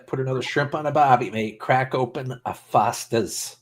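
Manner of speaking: rough attempt at an Aussie accent; terrible Australian accent. Livestreamer trying out Aussie catchphrases for friends, bad Australian accent. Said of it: "I have a terrible Australian accent".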